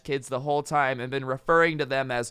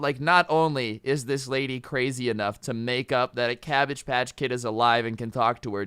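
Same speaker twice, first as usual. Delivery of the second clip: plain reading voice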